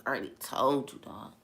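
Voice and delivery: soft, casual, untroubled; calm humble reply. Retold or imitated. Jesus answering them again, softly and calmly. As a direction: say it gently, nothing to prove.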